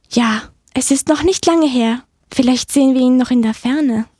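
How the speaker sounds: lightly voiced chirpy mouse; helpful little mouse. Mouse answering about the ox, lightly piped mouse voice. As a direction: answer as an eager small mouse.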